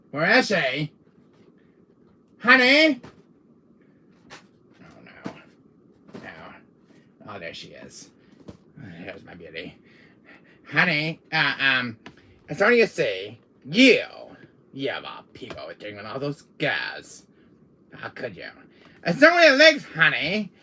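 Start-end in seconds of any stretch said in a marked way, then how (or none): 2.4-3.0 high loud call to the wife; nervous loud call. Acted. 19.0-20.5 sheepish high excuse. Acted. Caught by wife.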